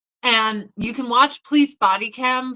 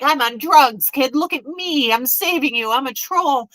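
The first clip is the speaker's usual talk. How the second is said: emphatic spaced-out impression; mock drugged man; 4 dB louder than usual. Mimicking drugged man to lost kid.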